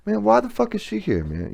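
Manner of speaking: high, quick irritated complaint to mom; annoyed complaint. Retold or imitated. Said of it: "go to my mom and be like".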